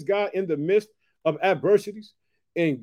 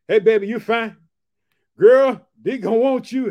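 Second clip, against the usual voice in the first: put-on playful smooth-talking husband, a sudden loud "Girl"; Abram sweet-talking Sarai; 6 dB louder than usual. Abram flatters his wife Sarai before Egypt, playful loud sweet talk.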